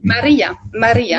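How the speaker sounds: Maria with the stress on the "ri"; Italian pronunciation. Shown as a demonstration. Guest correcting the host's Italian guess, Italian pronunciation. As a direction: say Maria the Italian way, long middle vowel. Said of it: "in Italian".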